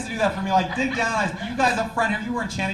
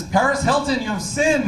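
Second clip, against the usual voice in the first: big mock divine voice booming the verdict; 4 semitones higher than usual. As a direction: boom it out like the voice of judgment. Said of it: "The voice says".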